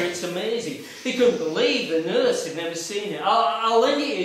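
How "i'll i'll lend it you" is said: lightly voiced eager doctor, a touch louder; a hint of a keen doctor; imitating the doctor. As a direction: mimic the doctor offering a favour. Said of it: "he says".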